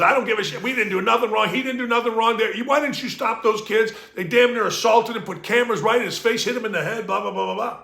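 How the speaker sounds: retold tirade. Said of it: "He goes".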